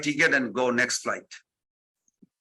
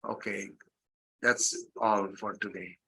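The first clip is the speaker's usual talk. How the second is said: much lower and much softer, barely getting the words out; choked up; 8 semitones lower, 10 dB quieter than usual. Retold or imitated. Guru ends the class overcome with tears, choked and very soft. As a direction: let the voice almost vanish, too moved to speak. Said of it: "He could not speak".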